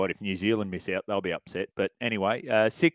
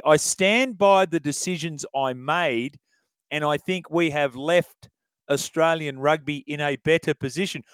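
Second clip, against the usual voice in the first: quoting Eddie. Retold or imitated. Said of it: "Have a listen to what Ed said here".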